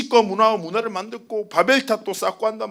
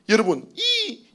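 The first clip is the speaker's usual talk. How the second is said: gravelly voice; 3 semitones higher, slower than usual. Real, not acted. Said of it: "어우, 목소리가 왜 이러지?".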